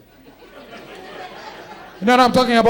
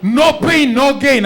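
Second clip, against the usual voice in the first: trainer slogan; 5 semitones higher, slower than usual. Retold or imitated. Gym trainer preaching to a client, mock hype. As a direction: pump it like a hyped trainer. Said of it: "the things he kept saying".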